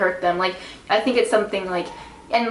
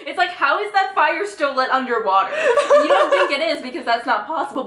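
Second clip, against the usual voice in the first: laughing; 5 semitones higher than usual. Real, not acted. Laughing about fire underwater.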